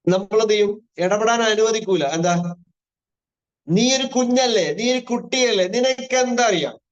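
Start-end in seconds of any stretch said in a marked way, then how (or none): 3.7-6.8 higher-pitched, lightly acted parent putting a child down; mock parental dismissal. Parent telling a child they are too little to know, mildly dismissive. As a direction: imitate a parent brushing a child off.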